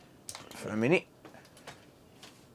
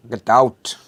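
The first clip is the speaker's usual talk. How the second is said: mock shout; 7 dB louder than usual.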